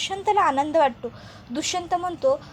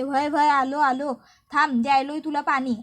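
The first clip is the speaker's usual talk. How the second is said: calling out; 5 dB louder than usual. Acted. Krishna calling out to Swati.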